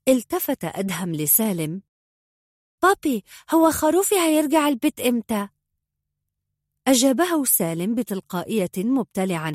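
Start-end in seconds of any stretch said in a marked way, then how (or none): 2.8-5.5 put-on higher, small child's voice; a little boy asking innocently. A narrator's reading. Little boy asking his father about his sheep, higher childish voice.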